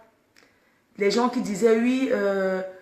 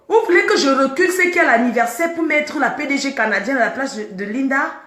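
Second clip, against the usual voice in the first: exasperated, slightly raised challenge; indignant rhetorical question; 3 semitones higher than usual. Real, not acted. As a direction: throw the question back at the critics. Defending herself against critics.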